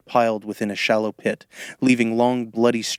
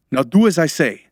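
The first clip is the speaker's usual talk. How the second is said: louder, higher command; barked order; 5 semitones higher, 6 dB louder than usual. A narrator's reading. Ritual leader ordering his frightened helper, barking. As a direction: bark it, demanding to be obeyed. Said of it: "he barked".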